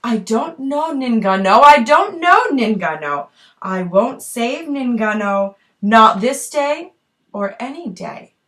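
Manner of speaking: teasing sing-song hunter. Acted. Hunter refuses to save her.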